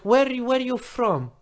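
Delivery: put-on high-pitched drunk questioning; drunk man. Drunk stranger quizzes man at the bus stop, drunk voice. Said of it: "he's drunk".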